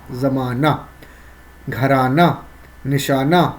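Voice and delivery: زمانہ، گھرانہ، نشانہ each ending in a plain aa, no h; silent final he. Shown as a demonstration. Teacher demonstrating haye mukhtafi, final he read as aa in زمانہ، گھرانہ، نشانہ. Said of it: "اس کا تلفظ الف کے اوپر آ رہا ہے".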